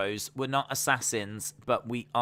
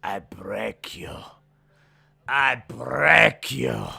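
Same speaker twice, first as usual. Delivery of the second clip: put-on Russian-style villain accent; 6 dB louder, much slower than usual. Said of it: "that would be her accent".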